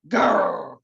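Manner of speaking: short bear growl. Acted. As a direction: growl at the fox. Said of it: "growled Bear".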